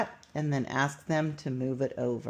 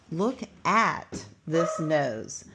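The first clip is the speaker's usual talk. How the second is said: slow reading; slower than usual. Shown as a demonstration. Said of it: "The next word is at".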